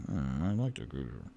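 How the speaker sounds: low creature voice pleased with the gazer. Acted. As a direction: purr it low like a monster admiring a gift. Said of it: "He's like".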